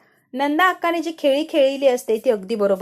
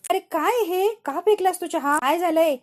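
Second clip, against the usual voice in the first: shocked outcry; 6 semitones higher than usual. Acted. Aunt shocked by thrown cup.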